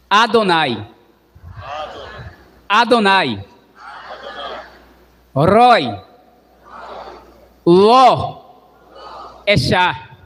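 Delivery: each word alone, spaced out for repeating; call and repeat. Shown as a demonstration. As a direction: give each Hebrew word slowly so they can echo it. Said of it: "Repitam comigo".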